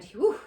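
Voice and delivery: whew of relief; relieved sigh. Acted. Zuckerman relieved the pig is fine, sighing whew. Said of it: "he sighed with relief".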